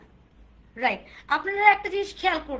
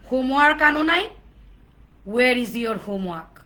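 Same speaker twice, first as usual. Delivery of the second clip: loud mock scolding about missing work; play-acted strict teacher, loud and demanding; stern teacher demand; 4 semitones lower, 6 dB louder than usual. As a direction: confront a pupil accusingly, drawing out the English. Demonstrates negative eye contact as teacher.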